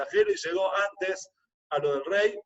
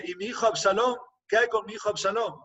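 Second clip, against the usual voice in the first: higher-pitched, urgent asking; anxious pleading question; 4 semitones higher than usual. Retold or imitated. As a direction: press for news of the son, voice lifted. King asks second messenger.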